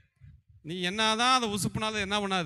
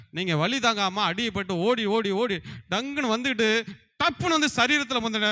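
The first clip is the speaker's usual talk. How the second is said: louder and higher as the chase peaks; urgent, dramatic build; 4 semitones higher, 6 dB louder than usual. Acted. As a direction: build to a loud, high-pitched climax. Acting out the soul fleeing home.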